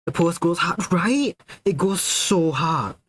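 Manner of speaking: gush, drawing out the last phrase; excited hype. Real, not acted. Hyping up a friend's art.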